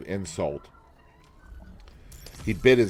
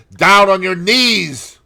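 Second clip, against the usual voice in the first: louder, higher, slowed menacing order; growled command; 11 semitones higher, 11 dB louder, slower than usual. A narrator's reading. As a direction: force him to kneel. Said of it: "growled the man".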